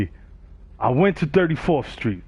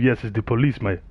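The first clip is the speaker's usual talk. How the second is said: mad smooth; 4 semitones lower than usual. Retold or imitated. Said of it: "he said it mad smooth".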